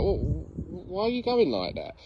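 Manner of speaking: slow, lightly voiced wary dog; suspicious dog. Trainer voicing a dog doubting its owner, mildly suspicious. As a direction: question it slowly, with a touch of suspicion. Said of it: "the dog gets suspicious of you".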